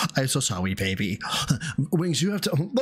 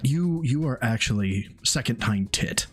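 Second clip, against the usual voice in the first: hammed-up superiority, a touch lower; over-the-top smug boasting; 6 semitones lower than usual. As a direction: talk down like a self-declared champion. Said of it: "Let me go over the top with the energy here".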